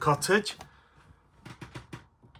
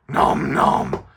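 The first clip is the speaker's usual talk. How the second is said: munching creature voice; 4 dB louder than usual. Acted. Puppet Stripe answers.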